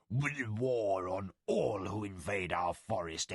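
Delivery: defiant, holding back a growl; snarling tiger warrior. Acted.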